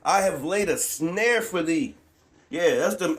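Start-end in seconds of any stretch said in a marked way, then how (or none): 0.0-1.9 slow, deliberate repeat; drawn out scripture line for emphasis. Shown as a demonstration. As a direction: lean on each word slowly. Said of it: "The Lord said what?".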